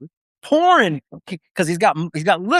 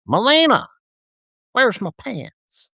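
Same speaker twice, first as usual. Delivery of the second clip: higher, slow calling out Melina, then a drawled question; mock chaplain call; 6 semitones higher, slower than usual. Chaplain calling his assistant across the dark tent, high and slow.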